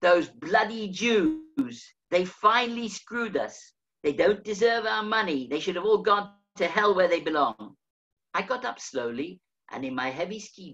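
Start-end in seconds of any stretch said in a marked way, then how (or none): 0.0-7.8 mock hateful jeer. Swiss men at the next table sneering about Jews, mildly mocking. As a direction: spit out the bigot's words with contempt. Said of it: "in their language and very loudly".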